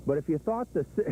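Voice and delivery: starts the line then dissolves into laughter; breaking up. Real, not acted. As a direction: lose it mid-word.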